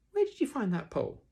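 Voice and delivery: put-on high, loud boy's question; Christopher Robin.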